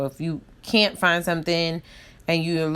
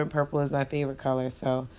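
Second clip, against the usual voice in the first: sniffling; 3 semitones lower, 6 dB quieter, faster than usual. Real, not acted. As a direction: sniffly voice from allergies. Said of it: "excuse my sniffling right now".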